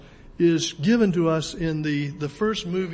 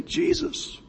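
pleading cry; 10 semitones higher, 4 dB quieter than usual. Acted. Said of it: "And we should say".

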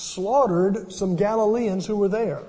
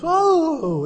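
high, loud collective gasp of surprise; startled crowd oh; surprised oh; 11 semitones higher, 6 dB louder than usual. Retold or imitated. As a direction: react as if caught off guard, much higher. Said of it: "everybody in the church goes".

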